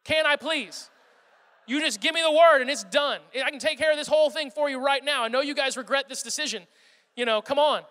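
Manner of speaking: lightly voiced eager collie asking permission; eager dog. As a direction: beg for permission, itching to act. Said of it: "he would be like".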